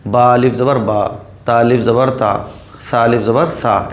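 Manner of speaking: बा अलिफ ज़बर बा rattled off with each बा cut short; mock the lazy student who stops stretching the vowels; rushed careless reading. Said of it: "ऐसा नहीं".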